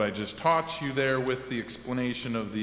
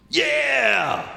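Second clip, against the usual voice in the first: much higher and louder shout; excited shout; 4 dB louder than usual. Acted. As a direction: yell it with glee. Enthusiastic shout in sketch.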